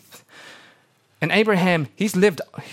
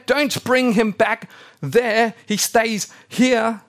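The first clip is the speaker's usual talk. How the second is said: higher, louder, slow and insistent; Abraham freaking out; 8 semitones higher, 4 dB louder, slower than usual. Retold or imitated. Abraham ordering the servant not to take Isaac back, slow alarmed shout. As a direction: lay down the law, slow and alarmed. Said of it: "Abraham kind of freaks out".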